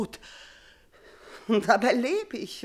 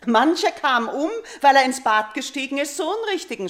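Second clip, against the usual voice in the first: raised warning; 4 semitones higher, 5 dB louder than usual. Acted. Queen warns of wrong hour.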